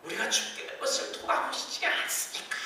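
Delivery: mock shout. Disciples waking Jesus in the storm, mock shouting. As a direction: yell it out as if the boat is sinking. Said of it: "소리를 지르면서".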